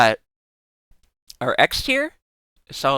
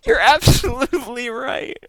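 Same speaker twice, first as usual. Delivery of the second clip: cutesy squealing; 12 semitones higher, slower than usual. Real, not acted. Streamer gushing at a bunny-pumpkin fusion, high squealing baby talk. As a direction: coo at it like a tiny pet, much higher and dragged out.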